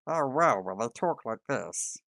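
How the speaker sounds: excited loud gasp of discovery; an excited player reacting; loud excited player reaction; surprised player. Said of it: "them going".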